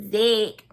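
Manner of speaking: mimicked "Zach", drawn out as "Zick"; playful copy of another woman's "Zach"; Karen. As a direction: say "Zach" like "Zick", teasing imitation. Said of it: "I gotta say it like Karen said".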